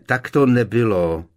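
loud, tense contradiction; through clenched teeth. A narrator's reading. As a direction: force it out through gritted teeth. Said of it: "procedil Harry pevně zaťatými zuby".

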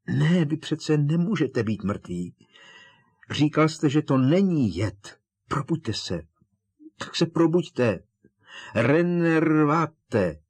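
high, urgent pleading rising to a shout; desperate crying out. A narrator's reading. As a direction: frantically try to rouse someone. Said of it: "vykřikl". (zoufalé, naléhavé volání)

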